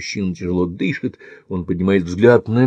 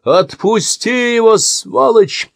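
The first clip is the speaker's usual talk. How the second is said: much higher, louder, drawn-out cry; furious shout; 14 semitones higher, 5 dB louder, slower than usual. Acted. Andy screams at the attacker, furious shout. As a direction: yell the insult at him. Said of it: "кричит Энди".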